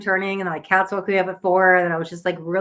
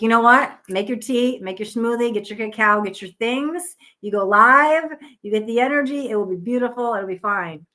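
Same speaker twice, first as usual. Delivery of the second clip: self pep talk; 4 semitones higher than usual. Retold or imitated.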